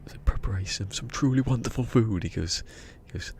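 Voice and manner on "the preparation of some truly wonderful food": higher, louder Texan take on truly wonderful food; a hammed-up Texan chef; Texan accent. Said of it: "Sound more like a Texan".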